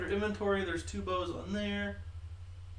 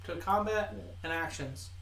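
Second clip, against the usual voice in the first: defensive, slightly raised correction; a bit mean; 2 semitones higher than usual. Real, not acted. Game master answers player blaming changed settings, a bit mean. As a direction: push back firmly, then settle into instructions. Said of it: "You said it real mean".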